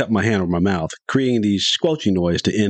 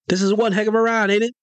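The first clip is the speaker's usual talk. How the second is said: high, gleeful and breathless with wonder; excited; 12 semitones higher than usual. Retold or imitated. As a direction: ride the thrill of it, up high. Thrilled kid in rocket.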